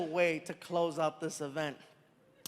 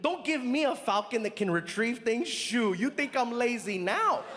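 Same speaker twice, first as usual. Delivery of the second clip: incredulous protest; 5 semitones higher than usual. Retold or imitated. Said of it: "I'm like".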